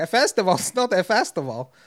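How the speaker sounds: high, playful, fun put-on Danish accent. Retelling what a man at an Iceland festival said, fun put-on accent. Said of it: "said it with a fun accent".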